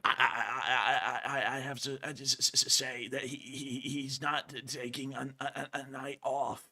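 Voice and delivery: halting, stuck on the first sounds; stuttering. Real, not acted. Co-host vouching that he's not taking a night off, stuttering. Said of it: "I'm stuttering so much tonight".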